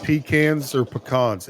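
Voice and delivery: "pecans or pecans." said slowly, first pee-KANZ and then puh-KAHNZ; "pecans or pecans." contrasting a flat a with a broad ah; two pronunciations. Shown as a demonstration. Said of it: "Depends on where you live".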